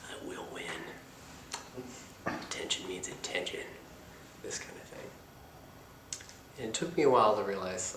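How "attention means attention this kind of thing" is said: whispering. Real, not acted. Quiet aside.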